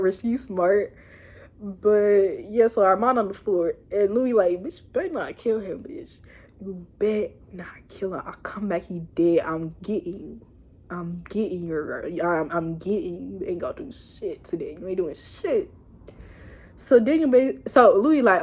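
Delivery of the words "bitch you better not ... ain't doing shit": quiet, low-pitched menacing threat; hushed imitation of a deadly warning; low retold threat.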